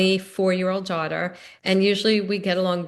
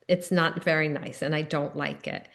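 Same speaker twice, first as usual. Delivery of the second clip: softer, lower, steady retold boundary; calm and firm; 4 semitones lower, 5 dB quieter than usual. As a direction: set a boundary gently but firmly. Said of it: "I was able to calmly say".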